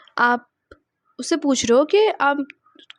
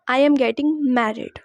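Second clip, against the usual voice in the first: very slow, word by word; slow repeat-after-me; much slower than usual. Shown as a demonstration. Teacher asking students to repeat, very slow. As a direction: model it slowly for the class to echo. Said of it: "repeat after me".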